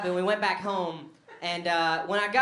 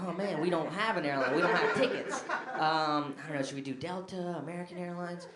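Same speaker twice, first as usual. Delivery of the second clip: sheepish fumbling; 2 semitones lower, 5 dB quieter than usual. Retold or imitated. Sheepish, no tickets.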